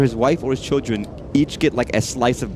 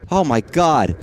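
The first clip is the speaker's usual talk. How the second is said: shaken; 3 semitones higher, 6 dB louder, slower than usual. Real, not acted. After jump scare.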